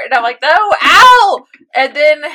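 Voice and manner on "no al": very loud, high wail; hammed-up despairing cry, drawn out; anguished shout. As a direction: wail it in dramatic dismay. Own anguished reaction, retold.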